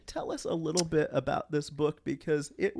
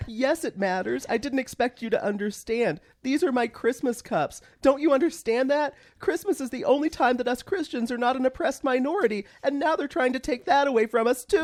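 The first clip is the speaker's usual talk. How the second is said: indignant believer, pitch climbing higher; dramatic reading; 5 semitones higher than usual. Acted. Parody scene, Christian insists the cups matter, hammed-up indignation. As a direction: lecture him, wounded and superior. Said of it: "This was a dramatic reading".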